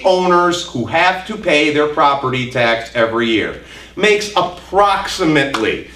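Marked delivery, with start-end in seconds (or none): 4.4-5.9 "approximately" set apart with deliberate emphasis; stress on approximately. Real, not acted. Lecturer qualifying a figure for the audience, "approximately" stressed. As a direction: lean on the word "approximately" so it registers. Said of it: "I emphasize that word".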